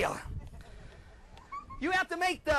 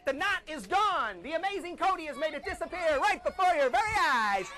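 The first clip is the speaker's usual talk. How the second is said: showman reveal. Acted. Magician's big reveal.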